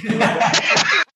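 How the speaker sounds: laughing, high, slowed "You are right"; drawn-out high mock agreement. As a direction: stretch it out high and giggling, mock surrender. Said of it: "And you go".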